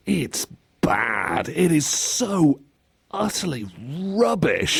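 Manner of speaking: BAD, SO, UTTERLY and RUBBISH spaced out with pauses; drawn-out, deliberate UTTERLY RUBBISH; emphatic verdict. Real, not acted. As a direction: pause before UTTERLY and RUBBISH, lifting the pitch.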